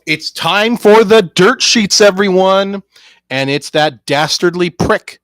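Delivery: loud, high, drawn-out announcer call; loud segment announcement. Acted. Introducing the dirt sheets to everyone, loud announcer call. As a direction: belt it out like a show host.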